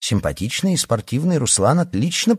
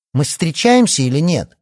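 high, louder, insistent question; loud demand; 9 semitones higher, 6 dB louder than usual. A narrator's reading. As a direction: press him loudly for an answer. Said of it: "громко спросила она". (громкий требовательный вопрос)

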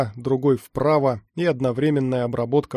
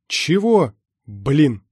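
startled dismay; 5 dB louder, much slower than usual. A narrator's reading. Runner hearing of a barrier ahead, startled dismay. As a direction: caught off guard and cursing. Runner reacts to bad news.

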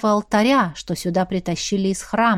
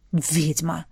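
low growl; 5 semitones lower, 6 dB quieter than usual. A narrator's reading. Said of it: "прорычал Тёмный".

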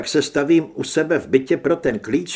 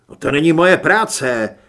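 louder, indignant outburst; exclaimed; 10 dB louder than usual. A narrator's reading. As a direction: blurt it out in protest. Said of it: "vykřikl Mikuláš".

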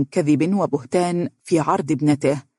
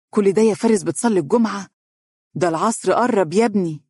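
higher-pitched, sceptical questioning; disapproving doubt; 4 semitones higher than usual. A narrator's reading. Mother doubting her son's prayer excuse, sceptical. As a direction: challenge the excuse with raised pitch.

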